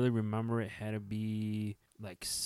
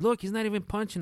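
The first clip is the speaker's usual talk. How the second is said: high, loud imitation of an uncle; loud, high-pitched retold jab; retold pointed proof; 11 semitones higher, 8 dB louder than usual. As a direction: imitate someone proving a point, voice way up. Retold uncle proving it fake.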